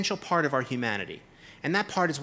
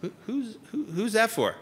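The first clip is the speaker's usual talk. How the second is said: stammered, laughing disbelief; incredulous laughing question; 4 semitones higher than usual. Retold or imitated. Speaker to the inspector, laughing in disbelief. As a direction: ask through a laugh. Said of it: "And I said".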